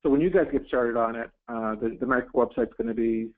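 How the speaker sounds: muffled voice, mic badly placed. Real, not acted. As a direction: sound muffled and distant from the mic. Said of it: "it sounds like you're muffled".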